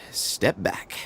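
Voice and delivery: whisper. Acted. Warning before the temple rises.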